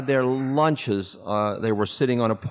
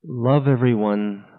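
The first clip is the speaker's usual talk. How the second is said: tender guru; 3 semitones lower than usual. Retold or imitated. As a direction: say it gently, nose to nose. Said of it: "he leaned forward and he said to me".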